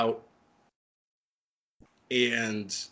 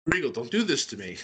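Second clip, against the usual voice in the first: mock shout plea; faster than usual. Yelling at television retold.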